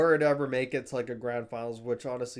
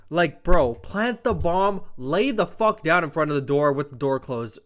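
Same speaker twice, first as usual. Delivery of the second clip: seething advice; 4 dB louder than usual. Real, not acted. As Rambo Ray scolding the teammate, seething and loud. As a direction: tell him what he should have done, fuming. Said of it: "I'm seething".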